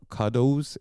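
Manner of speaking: CUDDLES said like "cuh-dohz"; mock the wife's "cuddles" as "cuh-dohz"; imitated pronunciation. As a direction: say CUDDLES with a long "oh" in the second syllable. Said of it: "Is that how you pronounce it?".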